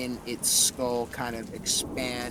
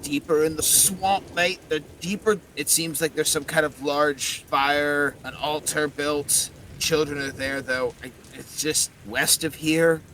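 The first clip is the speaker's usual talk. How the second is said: werewolf skull; 3 semitones higher, 5 dB louder than usual. Acted. Skull answers where the children are.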